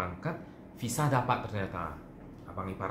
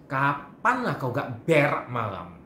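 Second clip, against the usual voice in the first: slow, louder warning jab; pointed retort; 5 dB louder, much slower than usual. Retold or imitated. Teller warns the gossiping friend, slow and pointed. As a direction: drag it out slowly as a veiled threat. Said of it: "sampai saya ngomong".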